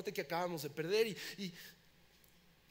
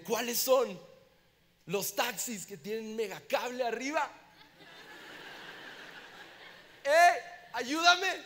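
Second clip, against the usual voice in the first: desperate plea; 4 semitones higher than usual. Retold or imitated. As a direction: beg the driver, building to a cry. Desperate plea to taxi driver.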